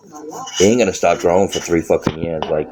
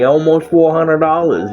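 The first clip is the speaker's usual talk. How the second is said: higher, laughing through the words; amused, incredulous; laughing disbelief; 9 semitones higher than usual. Real, not acted. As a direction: chuckle at how absurd the bill was. Laughing about high bill.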